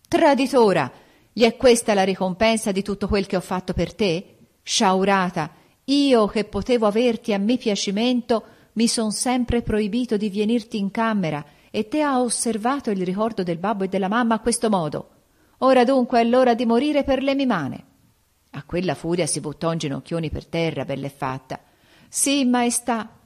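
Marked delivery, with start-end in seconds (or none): 0.1-17.8 loud, higher furious tirade; through gritted teeth. A narrator's reading. King threatens Bella e Fatta, furious through gritted teeth. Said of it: "gli dice a denti serrati". 22.1-23.2 slow, higher tearful yes; weeping plea. A narrator's reading. Kneeling girl answers the king, weeping. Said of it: "gli dice piagnendo".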